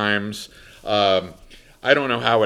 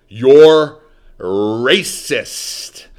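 accusing; 3 semitones higher, 8 dB louder, much slower than usual. Retold or imitated. Woman accuses Mister Bird.

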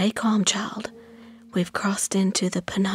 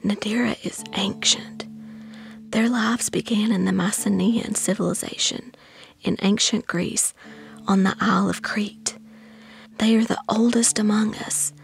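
hushed, high-pitched whisper; high, whispery storytelling aunt; Aunt Ruby Bee; 13 semitones higher than usual. A narrator's reading. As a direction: whisper it like a reverent guide to a child. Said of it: "In a low whisper".

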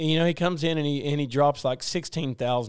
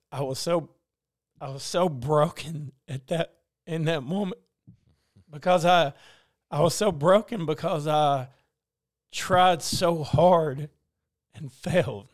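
real choked-up halting delivery; emotional; 2 semitones higher, 5 dB louder than usual. Real, not acted. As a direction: struggle through it, pausing to hold back tears. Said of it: "Sorry, I got emotional".

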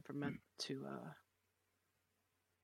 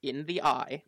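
loud bravado; 7 semitones higher, 16 dB louder than usual. Acted. Player loudly bracing.

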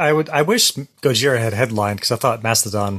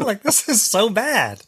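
laughing; 7 semitones higher, slower than usual. Real, not acted. Laughing after the impression.

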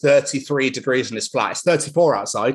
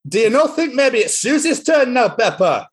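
put-on higher, Scottish-accented Daddy Pig; 8 semitones higher than usual. Friend reads Peppa Pig book aloud, high Scottish Daddy Pig. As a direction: read Daddy Pig in a thick Scots voice. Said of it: "I'm gonna do it in my accent".

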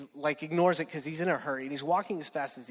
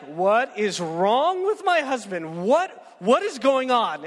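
high, loud, slow, bewildered mock wife voice; a hammed-up wife who can't believe what she hears; baffled wife; 5 semitones higher, 8 dB louder, slower than usual.

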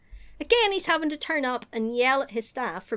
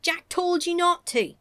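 mock scolding; 8 semitones higher than usual. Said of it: "And you're like".

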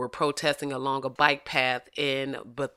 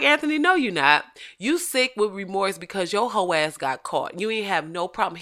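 scolding; 4 semitones higher than usual. Real, not acted. Scolding the apologizer.

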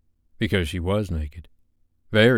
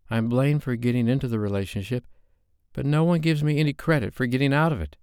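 aggrieved complaint; 6 semitones higher, faster than usual. Acted. Sophie complaining.

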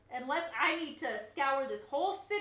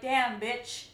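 self pep talk; 3 semitones higher, 4 dB louder than usual. Retold or imitated. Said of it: "and I'm like".

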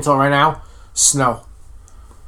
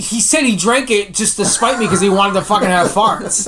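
higher voice, laughing through the complaint; real laughing; 5 semitones higher than usual. Real, not acted. Co-host telling friends about a milk prank, laughing. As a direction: tell it while cracking up.

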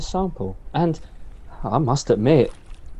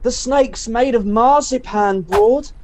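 hammy stage actor; 5 semitones higher, 4 dB louder than usual. Acted. Drugged raving, loud.

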